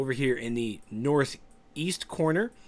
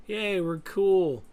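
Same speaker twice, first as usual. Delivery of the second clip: slow, high mock celebration; sarcastic slow yay; mock cheer; 8 semitones higher, 5 dB louder, much slower than usual. Mocking a relaxed tank.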